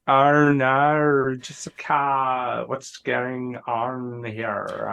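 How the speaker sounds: lightly voiced child; a hint of a young kid asking. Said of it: "another kid voice".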